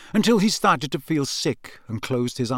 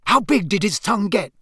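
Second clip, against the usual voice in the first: put-on higher, keen boyish question; a prankster twin, eager and higher; 6 semitones higher than usual. A narrator's reading. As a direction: ask it dying to know. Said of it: "George asked eagerly".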